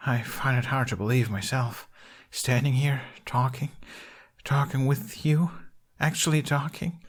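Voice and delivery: faintly trembling, nervous voice; quavering voice. Acted. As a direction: let the voice waver a little. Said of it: "His voice quavered faintly".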